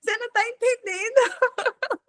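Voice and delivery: high voice breaking into laughter; laughing retort. Retold or imitated. Answering Larissa's compliment, laughing high-pitched retort. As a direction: laugh through the comeback.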